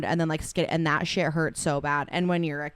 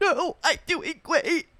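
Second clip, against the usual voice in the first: play-acted very high voice, fighting off crying; 12 semitones higher than usual. Co-host reenacts being asked if he is okay, imitating Jasper holding back tears. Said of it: "he'd be trying not to cry".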